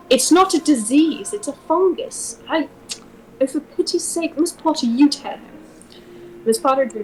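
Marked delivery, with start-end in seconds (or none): 0.1-5.6 exasperated. Acted. Narrator character losing patience with the doctor. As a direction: throw up your hands, voice climbing.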